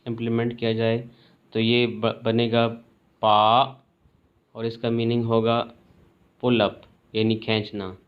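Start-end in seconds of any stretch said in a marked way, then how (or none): 3.2-3.8 पा meaning pull, rising tone; rising second tone. Shown as a demonstration. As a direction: lift पा upward. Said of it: "second tone जो rising tone है".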